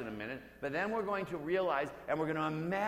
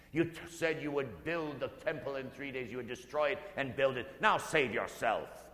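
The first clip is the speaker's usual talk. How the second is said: taunting; 3 semitones lower than usual. Acted. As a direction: sneer at the man on the cross. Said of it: "they threaten him".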